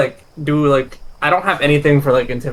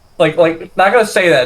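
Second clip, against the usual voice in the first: plain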